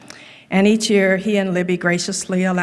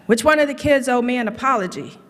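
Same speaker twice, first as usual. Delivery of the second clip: daddy-like angry; 6 semitones higher than usual. Retold or imitated. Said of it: "in his daddy-like, kinda angry voice".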